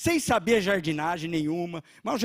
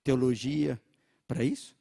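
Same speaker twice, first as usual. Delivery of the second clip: devil's voice; 5 semitones lower than usual. Retold or imitated. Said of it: "o diabo tentou colocar no meu coração".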